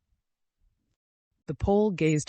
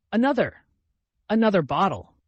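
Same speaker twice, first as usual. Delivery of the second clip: much higher, much louder shout for more; loud call; 8 semitones higher, 9 dB louder than usual. A narrator's reading. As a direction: bellow across the room to the innkeeper. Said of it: "Mitya cried to the innkeeper".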